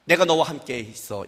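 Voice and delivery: low, soft voice of God; God's calm answer. Retold or imitated. Pastor voicing God's quiet reply to Moses. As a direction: answer the worry quietly, unhurried. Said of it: "이렇게 말해요".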